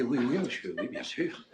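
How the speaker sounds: very soft, low reply; imitated hushed deference; meek maid. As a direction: answer the boss in a tiny murmur. Timid maid answers the boss.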